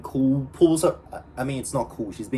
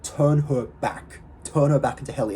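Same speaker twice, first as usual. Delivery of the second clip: retold command. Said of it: "And he's like".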